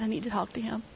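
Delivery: whispered plea to the nurse. Retold or imitated. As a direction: breathe it out, barely voiced. Asking the nurse, overwhelmed.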